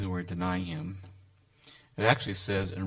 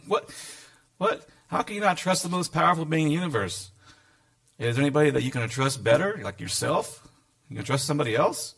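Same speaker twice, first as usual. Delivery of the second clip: exasperated disbelief; 3 semitones higher than usual. Pretend. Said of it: "he gets exasperated by this".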